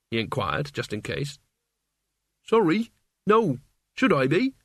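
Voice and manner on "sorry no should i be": put-on young Mort voice.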